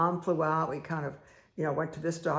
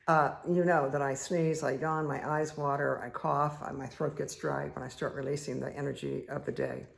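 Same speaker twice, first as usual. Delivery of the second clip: ordinary delivery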